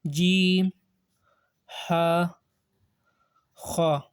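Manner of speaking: Arabic letter names, Ha and Kha with long open "aa"; Arabic accent. Shown as a demonstration. Teacher shows how to pronounce letters, Arabic accent. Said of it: "this is the Arabic accent".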